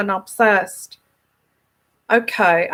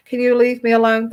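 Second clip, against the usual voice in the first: emotional plea; faster than usual. Shown as a demonstration. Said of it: "That's emotional".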